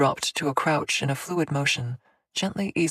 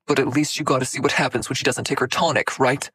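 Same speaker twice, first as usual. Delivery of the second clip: fast, louder bitter spit-back; bitter retort; 4 dB louder, faster than usual. Acted. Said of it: "Cassius spat back bitterly".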